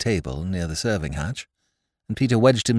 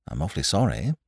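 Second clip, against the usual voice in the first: apologetic; 3 semitones lower, 5 dB quieter, faster than usual. Acted. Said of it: "said Whimsy apologetically".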